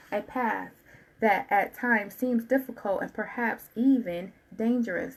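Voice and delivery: slow, measured reading aloud; card reading. Acted. Tarot reader reading the card to her listener, measured. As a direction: read it out slowly, spacing the words.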